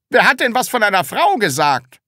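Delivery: high, loud, fast retort; exasperated teacher. Acted. Teacher to pupil talking of a woman, exasperated. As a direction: demand it in exasperation.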